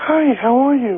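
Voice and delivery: slow, drawn-out, inviting come-hither voice. Calling in as a singer and greeting the hosts: come-hither voice imitating the singer. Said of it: "You have a come hither voice".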